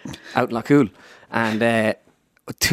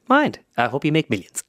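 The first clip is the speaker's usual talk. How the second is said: impersonated pundit, high first word then dropping; Ger Loughnane; 3 semitones higher than usual. Acted. Pundit answering his impersonator's apology, put-on voice. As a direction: pitch the first word way up, then settle into the caricature. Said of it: "he goes".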